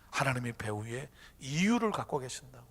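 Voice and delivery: ordinary talk, nothing marked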